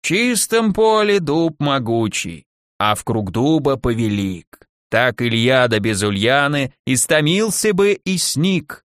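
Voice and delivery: put-on slow, rhythmic old crone's spell; nasal muttered incantation. A narrator's reading. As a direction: intone the verse slowly, lightly nasal, like a charm. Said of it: "забормотала гнусаво".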